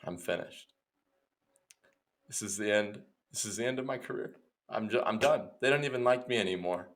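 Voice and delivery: very quiet, defeated delivery; hushed actor mourning his career; solemn. Acted. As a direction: give up softly, with long pauses. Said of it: "he's, like, kinda solemn".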